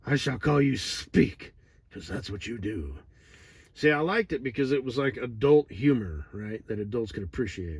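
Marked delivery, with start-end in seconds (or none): 0.0-1.5 slow, grand mock cartoon voice; lightly voiced, slow cartoon line; cartoon character quote.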